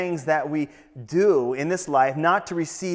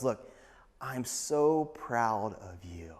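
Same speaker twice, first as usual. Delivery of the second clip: soft, slow, earnest praise; hushed, heartfelt commendation; tender praise; 3 semitones lower, 4 dB quieter, slower than usual. Acted. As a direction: let the pride come out quietly and slowly. Jesus tenderly praising the believer.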